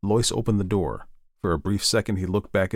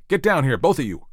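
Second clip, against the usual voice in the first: raised, sharp fatherly command; barked order; 7 semitones higher, 4 dB louder than usual. A narrator's reading. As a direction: bark it up the stairs. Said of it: "Ed barked".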